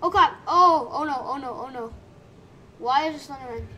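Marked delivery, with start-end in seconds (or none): 0.0-1.9 sudden scared yelp, then nervous laugh; startled panic. Real, not acted. Slenderman suddenly appears in game.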